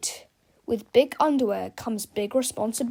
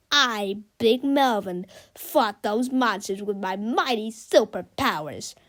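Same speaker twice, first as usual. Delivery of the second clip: boastful Melvin. Acted. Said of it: "Melvin fibbed".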